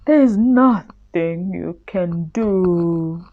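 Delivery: a trapped lion giving up hope; sadly. Acted. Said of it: "said Lion sadly".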